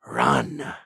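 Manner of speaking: whispered through gritted teeth; creepy whisper. Retold or imitated. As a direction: breathe it out like a menacing clown. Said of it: "with his teeth gritted, he goes".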